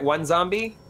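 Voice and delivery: usual speaking voice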